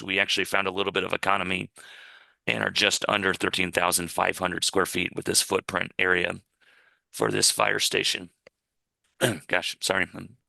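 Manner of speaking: hoarse, failing voice; losing voice. Real, not acted. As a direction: voice going hoarse mid-talk. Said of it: "I'm losing my voice here".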